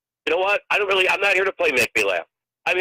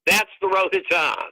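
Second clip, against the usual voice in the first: exasperated retort; 5 semitones higher than usual. Retold or imitated. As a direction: spell it out to someone who should know. Retold argument with a local.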